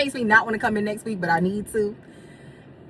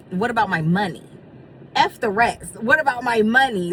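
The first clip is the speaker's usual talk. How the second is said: annoyed; 3 semitones higher, 5 dB louder than usual. Real, not acted. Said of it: "it's very annoying".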